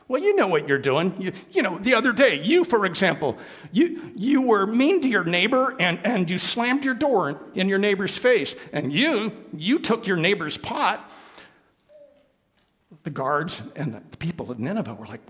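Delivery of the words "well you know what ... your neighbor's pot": high, loud scolding; accusing prophet. Acted. Jonah scolding the people of Nineveh, high and loud. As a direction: wag a finger at them.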